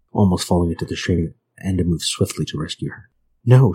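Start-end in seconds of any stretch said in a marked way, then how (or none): 3.5-3.7 understated narrated shriek; a contained cry of alarm. A narrator's reading. Frightened girl refusing Enda's help, mild shriek. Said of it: "she shrieked".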